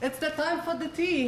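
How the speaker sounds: put-on French English accent. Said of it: "Parle avec un accent british".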